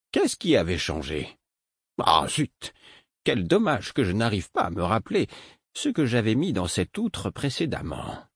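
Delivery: lightly voiced grumbling old mentor; a hint of a puzzled old teacher.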